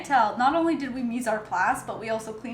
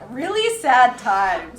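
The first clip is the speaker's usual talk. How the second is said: slow, loud mock of co-host; mocking imitation; 7 dB louder, much slower than usual. Co-host teasing a dark remark, mocking imitation. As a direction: drag it out, exaggerating their gloom. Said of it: "You're like".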